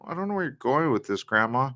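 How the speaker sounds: softly voiced polite impatience with grandma; imagined private thought. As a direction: think it under your breath. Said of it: "in your head you do that".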